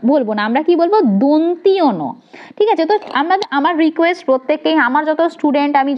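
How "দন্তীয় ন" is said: slow, deliberate দন্তীয় ন; careful pronunciation. Shown as a demonstration. Teacher to trainee teachers, slowly modelling the name. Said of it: "দন্তন্য বলবো না".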